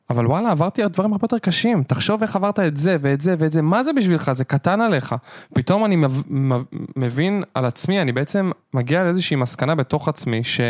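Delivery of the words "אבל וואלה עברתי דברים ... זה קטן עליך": higher, buoyant self-encouragement; self pep talk. Retold or imitated. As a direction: talk yourself up like a buddy before a challenge. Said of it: "אני פתאום אומר לעצמי". (מדבר לעצמו בעידוד, בקול גבוה ובטוח)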